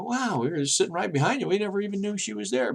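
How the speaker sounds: imitated amazed passenger. Passengers surprised to see the dog.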